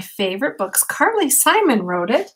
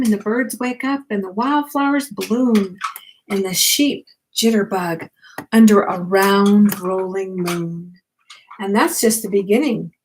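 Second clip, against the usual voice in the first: put-on bedtime story read to a child; reading aloud; slower than usual. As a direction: gently read the picture book to the grandchild. Reads picture book aloud.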